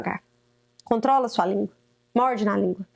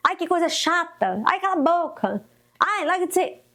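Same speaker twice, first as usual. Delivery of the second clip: dismissive mother; 5 semitones higher than usual. Retold or imitated. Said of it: "Porque eu passei por isso".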